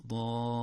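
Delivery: "ضالين" with a long vowel, then a lingering ل; tongue stuck on lam. Shown as a demonstration. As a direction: let the tongue stick on the ل of "ضالين". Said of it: "يعلق اللسان في اللام". («ضالين» بتعليق اللسان في اللام)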